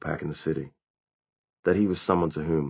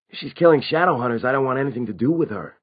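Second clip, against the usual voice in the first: higher-pitched, emphatic character voice; pitched-up vampire, adamant; vampire refusing involvement; 7 semitones higher, 4 dB louder than usual. A narrator's reading.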